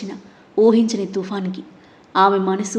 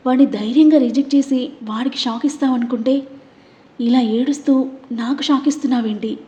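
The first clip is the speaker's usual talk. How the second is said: anguished; 3 semitones higher than usual. Acted. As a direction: plead with her through his own hurt. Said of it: "అన్నాడు ఆవేదనగా". (ఆవేదనగా)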